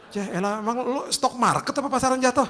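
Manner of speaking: incredulous ribbing; mock scoff. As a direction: tease him for the silly phrase. Mocking retort.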